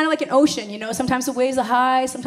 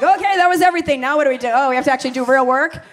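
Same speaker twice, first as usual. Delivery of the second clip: bride's shock; 5 dB louder than usual. Pretend. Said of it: "it's kinda like".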